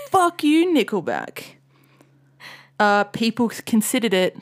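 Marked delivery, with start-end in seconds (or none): 0.1-1.6 mock angry fan. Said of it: "They're like".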